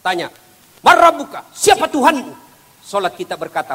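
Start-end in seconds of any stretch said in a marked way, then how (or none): 0.8-2.3 high, loud interrogating angel; stern angel asking. Acted. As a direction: boom the grave question down from above. Angel questions the dead in grave. (malaikat bertanya dengan suara tinggi dan keras)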